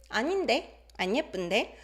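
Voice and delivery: put-on mildly sassy toddler retort, rising at the end; playful contradiction. Teacher quoting the toddler's reply, playful contradiction. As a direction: imitate a little one teasing back. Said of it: "She's being playful".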